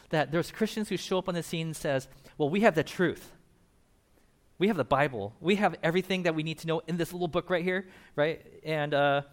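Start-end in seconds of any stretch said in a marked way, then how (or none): 2.4-7.9 louder, smug mock of a know-it-all believer; mock arrogant Christian. Preacher mocking arrogant Christians, smug and louder. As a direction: lightly ham up the smug churchgoer. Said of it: "they get this arrogance".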